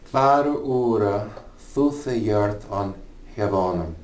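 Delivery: put-on slow, careful Old English "Var ora thuthe yert on hevonum"; Anglo-Saxon reading. Shown as a demonstration. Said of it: "So the Lord's Prayer in Anglo-Saxon".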